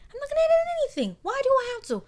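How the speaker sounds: defiant. Real, not acted. Defiant about not editing.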